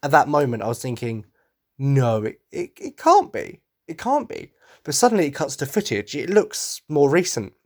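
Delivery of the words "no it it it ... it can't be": stunned disbelief. Retold or imitated. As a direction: gasp it out like you can't believe your eyes. Disbelief at the trailer.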